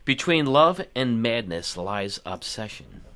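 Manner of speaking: slow, low seductive ad voice; sexy voice. Acted. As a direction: purr it like a perfume ad. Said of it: "you said that in your sexy voice".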